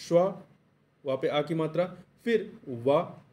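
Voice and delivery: syllable by syllable, drawn out; spelled out slowly. Shown as a demonstration. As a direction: spell out स्वा ... वा slowly, stretching वा. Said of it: "स्वालंबन में आप कैसे लिखेंगे?". (अक्षर-अक्षर धीरे बोलकर)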